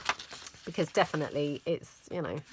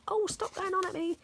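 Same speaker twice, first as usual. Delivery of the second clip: much higher mock-huffy whine; offended daughter; 13 semitones higher than usual. Daughter brushing off mum's nagging, much higher and mock-offended. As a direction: send up her put-upon protest. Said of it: "She acts like she's all offended".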